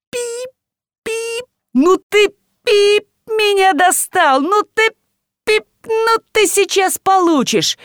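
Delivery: high furious ranting with bleeps; rage, spitting out cut curses; bleeped rage. A narrator's reading. Furious father threatens son with bleeped curses.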